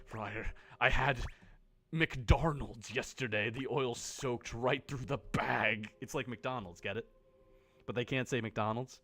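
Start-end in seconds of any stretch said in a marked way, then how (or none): 0.0-5.9 slow, hushed confessing; mock penitent confession. Player kneeling before the friar, mock grave confession. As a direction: confess the greasy meal like a grave sin.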